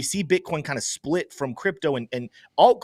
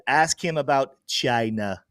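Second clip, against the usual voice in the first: put-on slow, lightly done Trump accent; a hint of Trump drawling it out; Trump impression; slower than usual. Host reading a viewer's question in a mild Trump accent. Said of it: "I have to say it with a Trump accent".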